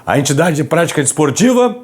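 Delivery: hushed, hoarse voice from a sore throat; raspy whisper. Real, not acted. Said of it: "Falando baixinho aqui".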